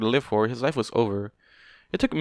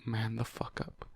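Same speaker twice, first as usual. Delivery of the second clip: much softer, slow murmured scold; soft repeat; 14 dB quieter, slower than usual. Real, not acted. Reader scolding the character, softly. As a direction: say it again under your breath. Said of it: "repeats scolding softly".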